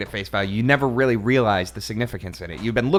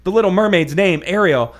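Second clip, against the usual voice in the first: hammed-up book reading; mock dramatic reading; 2 semitones higher, 4 dB louder than usual. A narrator's reading. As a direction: read it like a big reveal. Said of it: "my dramatic reading here".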